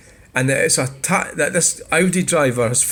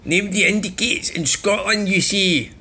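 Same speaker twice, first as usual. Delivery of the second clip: higher, sneering read of a troll's comment; mocking troll voice, pitched up; mock comment-reader voice; 5 semitones higher than usual. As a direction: ham up the commenter's smug tone. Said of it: "I'll do it".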